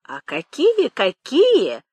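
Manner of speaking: high, swooping retort; old nanny's indignant-sounding echo; exclaiming. Acted. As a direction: throw the question back as an exclamation. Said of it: "воскликнула Пелагея".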